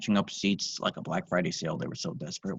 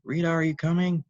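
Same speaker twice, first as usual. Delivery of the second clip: bellowed; 8 semitones higher, 5 dB louder than usual. Acted. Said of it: "bellowed out in distress".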